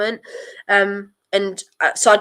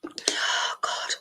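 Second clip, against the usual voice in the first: short panicky breaths; hyperventilating; 12 dB quieter than usual. Real, not acted. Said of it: "I'm hyperventilating".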